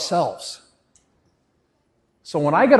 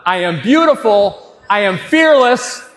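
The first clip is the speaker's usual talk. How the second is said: raised voice, firm chant; a little louder; 3 semitones higher, 4 dB louder than usual. Shown as a demonstration. Speaker leading the crowd's chant, a little louder. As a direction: lift the chant a bit for the crowd. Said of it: "Little louder".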